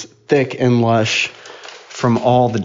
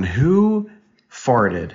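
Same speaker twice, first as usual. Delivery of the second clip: mock accusing passengers; 3 semitones higher, slower than usual. Parent acting out everyone in the car, mock accusing. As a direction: stretch a high, incredulous "who". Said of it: "And everybody's going".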